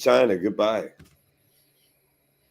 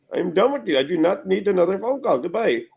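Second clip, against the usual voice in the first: retold brush-off; 9 semitones higher than usual. Retelling how he ends the call.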